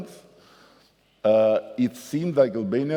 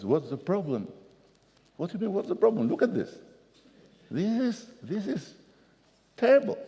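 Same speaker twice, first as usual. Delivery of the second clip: pitched way up, shrill with outrage; hysterical French supervisor; 10 semitones higher than usual. Retold or imitated. French supervisor screaming at the new mayor, hysterical. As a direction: climb higher with every line, losing control.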